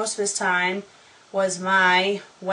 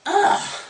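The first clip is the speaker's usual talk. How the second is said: high, sharp "ugh"; short burst of disgust at the error; fed-up high groan; exasperated groan; 12 semitones higher, 4 dB louder than usual. Real, not acted. Reader disgusted by the misspelling.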